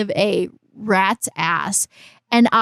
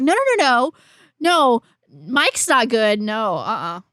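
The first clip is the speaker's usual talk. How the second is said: mock denial. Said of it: "The fact that you're like".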